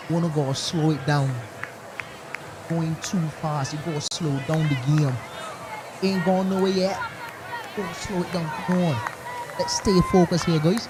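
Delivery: lightly put-on Bajan accent calming the bowlers. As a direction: relay the coach's words in a mild Bajan accent. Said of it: "my interpretation of a Bajan right there".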